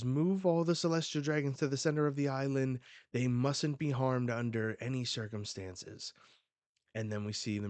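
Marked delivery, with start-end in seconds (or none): 0.0-6.1 urgent command. Acted. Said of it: "And it says".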